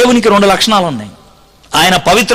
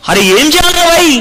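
panicked plea; 10 semitones higher, slower than usual. Retold or imitated.

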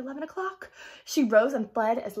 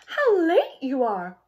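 mock sleepy yawn; 6 semitones higher, 8 dB louder, slower than usual. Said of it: "she said, yawning".

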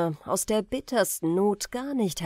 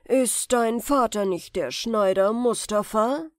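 louder, probing stranger's voice; sorcerer's question; 2 semitones higher, 5 dB louder than usual. Acted. The stranger asks the boy about his father, sly. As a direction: fish for the answer, sly.

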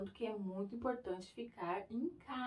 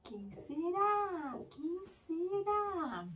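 playful suspense; 8 semitones higher, much slower than usual. Acted. Slow teasing suspense for babies.

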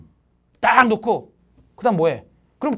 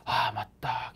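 imitating a lazy student; 7 semitones lower, 6 dB quieter than usual. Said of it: "이런 사람들 있지?".

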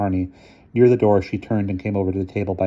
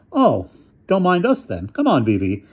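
hurt and bitter; 10 semitones higher than usual. A narrator's reading. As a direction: swallow the hurt and walk off. Arnie hurt, leaving.

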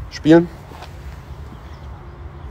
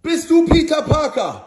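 high, slow villain voice; a menacing cartoon villain, drawn out; Green Goblin voice; 12 semitones higher, slower than usual. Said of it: "der grüne Kobold".

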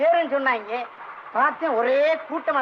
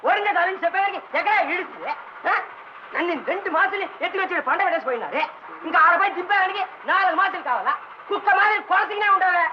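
shouting complaint; 3 semitones higher than usual. Acted. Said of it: "ஏன்யா கத்துற?". (சற்றே கத்திப் புலம்பல்)

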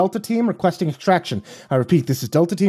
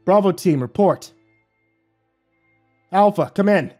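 urgent, pleading call; desperate radio call; 7 semitones higher, 3 dB louder than usual. Acted. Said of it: "Hazan cried desperately into the mic".

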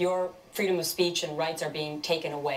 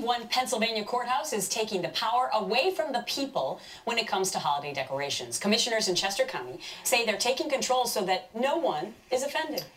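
anchor's measured story introduction; crisp newsreader delivery; news read. Acted.

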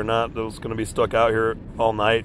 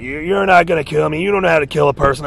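higher, louder defiant comeback; defiant retort; 4 semitones higher, 4 dB louder than usual. Retold or imitated. Telling off the man who threatened him, higher and louder. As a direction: fire back at the murderer. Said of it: "it's like".

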